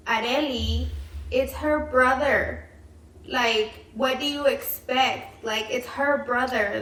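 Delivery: slow, emphatic retold reproach; mildly exasperated chiding. Kid explaining to sister why mom cries at brother's graduation, mildly exasperated. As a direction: spell out the obvious, mildly exasperated.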